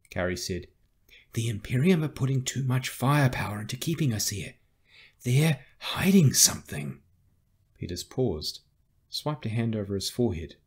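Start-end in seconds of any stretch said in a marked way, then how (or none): 1.3-7.0 higher-pitched, emphatic reasoning; emphatic young recruit making a case; insistent argument. Acted. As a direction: press the case urgently. Carrie argues against retreat.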